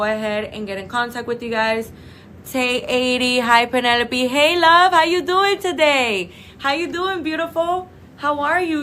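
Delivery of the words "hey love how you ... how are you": bright, high, loud hello to a viewer; light up as a friend walks in; excited greeting. Real, not acted. Streamer greeting a viewer who just joined, excited. Viewer Penelope joins the live.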